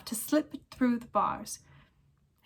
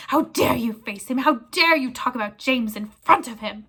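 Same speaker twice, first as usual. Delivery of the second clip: louder furious shouting; angry roar; 6 dB louder than usual. Acted. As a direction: keep raging at him. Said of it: "roared Black".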